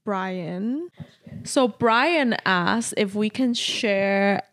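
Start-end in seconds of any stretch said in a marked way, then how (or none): 1.4-4.4 put-on valley girl voice. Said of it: "Why do you talk like a valley girl?".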